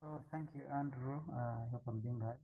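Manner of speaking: very quiet, low voice; speaking softly so as not to disturb; barely audible. Real, not acted. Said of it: "I'm speaking in low tone".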